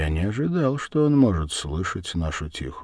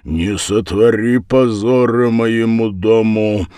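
raised, insistent plea; louder, higher entreaty; almost pleading; 5 semitones higher, 8 dB louder than usual. A narrator's reading. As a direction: implore them to spare the house's honour. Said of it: "почти умолял Дуботолк".

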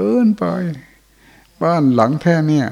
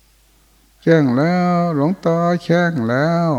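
slow, high, drawn-out wail; eerie wailing voice; 6 semitones higher, much slower than usual. Retold or imitated. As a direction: stretch each word like a distant cry in the night. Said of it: "เสียงเหมือนคนร้อง". (เสียงโหยหวนช้าๆ สูงๆ)

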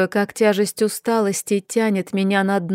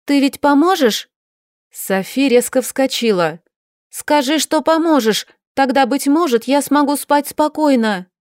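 a higher, lightly voiced young woman asking urgently; young Sofi pleading; 5 semitones higher, 4 dB louder than usual. Sofi to her aunt, higher-voiced urgent plea. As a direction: press her aunt for a promise.

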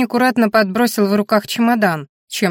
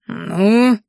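booming drawl; 2 semitones higher, 3 dB louder than usual. Acted. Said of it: "протянула зычно".

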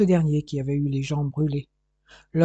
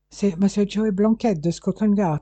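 put-on English accent; 5 semitones higher than usual. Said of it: "une voix avec un fort accent anglais".

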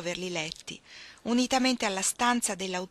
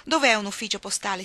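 exclaiming; 5 dB louder than usual. Acted. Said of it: "esclamò Orlando".

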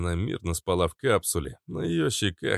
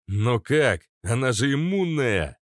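louder, higher cry of disbelief; startled exclamation; 6 semitones higher, 4 dB louder than usual. Acted. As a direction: exclaim in astonishment. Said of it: "воскликнул я".

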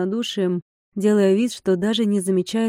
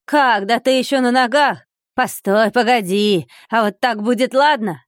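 loud, gloating, pitched-up taunts; mocking fury; 3 semitones higher, 3 dB louder than usual. Monk pelts the old man with stones, gloating and loud. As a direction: hurl each blessing like a stone.

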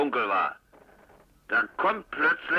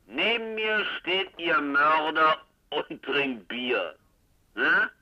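drawn out, smug and slow; slow tipsy tease; 3 semitones higher, slower than usual. Acted. Tipsy informant teasing the commissioner on the phone, slow and smug. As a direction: savor the reveal like a tipsy joker.

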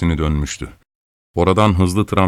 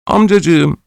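high, loud tearful plea; pleading child; 9 semitones higher, 5 dB louder than usual. A narrator's reading. Orphan begging his angry master, tearful high plea. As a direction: beg for mercy through tears. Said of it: "diye yalvardı".

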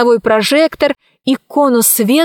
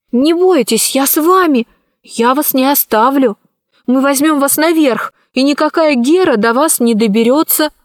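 put-on higher, kind girl voice; reassuring girl; 4 semitones higher than usual. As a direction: comfort a frightened old man. Alice reassures old man.

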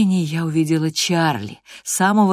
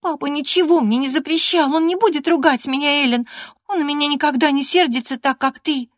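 put-on much higher, eager girlish chatter; lively young girl; 11 semitones higher, 3 dB louder than usual. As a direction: bubble over with stories to tell. Catherine answering.

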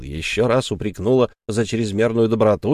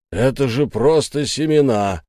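raised voice; 2 semitones higher than usual. Acted. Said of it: "повысил голос Ральф".

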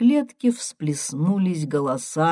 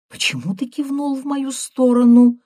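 put-on higher, louder suspicious old woman; granny suspects the grandson means her, wary; 9 semitones higher, 7 dB louder than usual. A narrator's reading. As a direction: ask it alert and suspicious. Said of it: "насторожилась бабаня".

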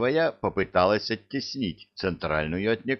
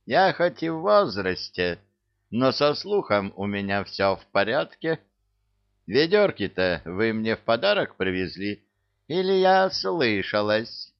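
sly teasing; 3 semitones higher than usual. Acted. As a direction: tease them slyly. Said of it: "Ведьма лукаво посмотрела на Илью".

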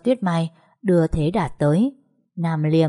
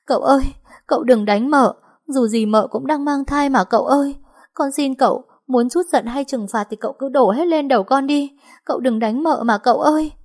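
high, louder, tearful begging; sobbing plea; 8 semitones higher, 4 dB louder than usual. Acted. Maid begs master to stop hitting the pregnant mistress, high and tearful. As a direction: beg through tears for mercy. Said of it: "khóc nấc".

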